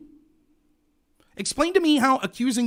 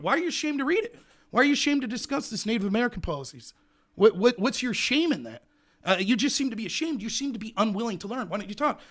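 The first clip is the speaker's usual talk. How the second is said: higher-pitched mock-accusing questions; badgering debater; 3 semitones higher than usual. Host parodying an opponent who shames him for not reading, badgering. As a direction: needle them with pressing, mock-concerned questions.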